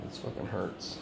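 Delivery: whispered, soft and low in real pain. Real, not acted. In real pain from the head attack, whispered. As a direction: breathe it out through the pain.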